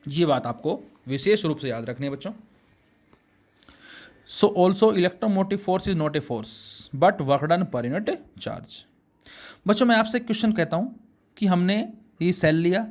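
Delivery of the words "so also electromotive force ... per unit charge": slow dictation. Acted. Dictating definition.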